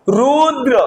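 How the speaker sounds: रुद्र ending on a clear अ; Rudra with final a. Shown as a demonstration. Teacher showing the vowel at the end. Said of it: "बात रुद्र की करता हूं".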